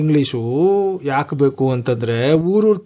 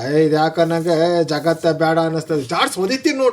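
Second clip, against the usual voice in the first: grandfather's scolding. Retold or imitated. Grandfather threatening gloomy sons with a kick, retold scolding. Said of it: "ಅಂತ ಗದರ್ಸನಂತೆ ನಮ್ ತಾತ".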